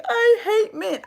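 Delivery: high mock wail; mock crying woman. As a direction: parody a bitter woman's complaint. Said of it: "I'm just crying on this app saying".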